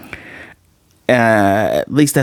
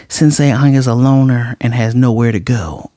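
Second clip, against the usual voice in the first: Anya's odd way of speaking. Retold or imitated. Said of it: "just the way she speaks is hilarious".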